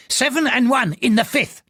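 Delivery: put-on high, pleading old gambler's voice; an old man urgently placing his bet; aged bettor, high and eager; anxious old man. Old man character voice in narration.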